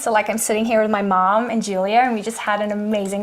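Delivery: a light American accent, laughing a little. Shown as a demonstration. Guest demoing accents on request, light American accent. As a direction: put on a breezy American accent. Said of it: "go for an American accent".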